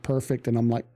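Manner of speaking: ordinary delivery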